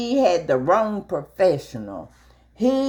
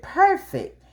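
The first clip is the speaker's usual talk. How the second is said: proud; 13 semitones higher than usual. Retold or imitated. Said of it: "I said".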